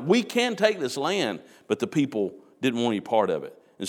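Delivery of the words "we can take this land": higher, slow, pleading insistence; emotional insistence. Retold or imitated. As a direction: plead passionately that it can be done. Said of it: "adamant and emotional about it".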